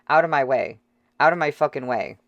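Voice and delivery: shouted, pushing through a crowd; forceful yelling. Acted. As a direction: bark it at the people blocking you. Shoving through crowd, swearing.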